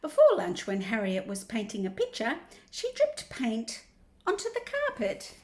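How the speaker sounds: picture-book reading with big pitch swings; reading to children. Acted. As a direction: draw out the key words for young listeners. Reads picture book aloud.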